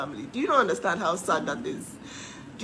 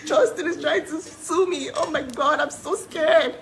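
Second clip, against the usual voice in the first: hammed-up fright, higher and slow, laughing through it; mock scared; 7 semitones higher than usual. Mocking the cease and desist from Justin, hammed-up fear. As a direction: pretend to tremble, sarcastically. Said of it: "I'm supposed to be like".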